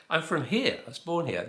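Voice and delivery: acted-out indignant reply; mock protest. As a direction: protest that you really belong. Acted protest to doubting locals.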